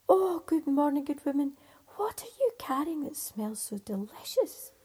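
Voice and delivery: lightly voiced eager tailor; cheery little tailor. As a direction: sweet-talk the woman for jam. Tailor greets the farmer's wife.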